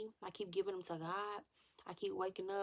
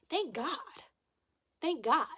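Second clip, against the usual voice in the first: higher, louder thank God, gushing; excited relief; 7 semitones higher, 6 dB louder than usual. Real, not acted. Vlogger thrilled her man leads, excited. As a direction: cry out in relieved joy.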